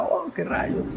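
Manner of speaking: prim exclamation. Retold or imitated. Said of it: "Y yo decía".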